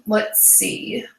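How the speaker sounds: words stretched through a yawn. Real, not acted. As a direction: talk while yawning. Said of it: "Sorry, I'm yawning".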